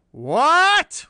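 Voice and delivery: huge, high-pitched outraged shout; roar. A narrator's reading. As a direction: roar in disbelief. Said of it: "roared Bland".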